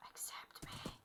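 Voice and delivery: whispered mock plea; hushed, hammed-up coaxing; pleading whisper. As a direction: whisper it, begging for acceptance. Pleading with the horse.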